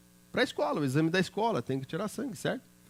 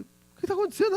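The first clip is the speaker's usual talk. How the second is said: much higher, startled; alarmed cry. Retold or imitated. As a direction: ask in sudden alarm, pitch jumping up. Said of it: "Eu falei".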